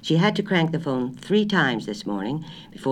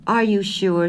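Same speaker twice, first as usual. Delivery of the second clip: higher and louder, a little raised; 8 semitones higher, 5 dB louder, slower than usual. A narrator's reading. Wife repeating her order louder to grocer. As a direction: speak up so he can hear.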